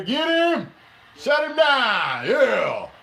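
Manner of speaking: high, loud cheering shouts; real hype shouting at the TV; excited fan yelling. Real, not acted. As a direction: yell at the screen to stop him. Fan yelling at pass rush.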